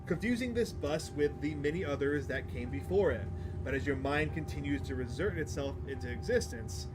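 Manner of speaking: measured story narration. Acted. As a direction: read it out like a storyteller. Reads game narration aloud.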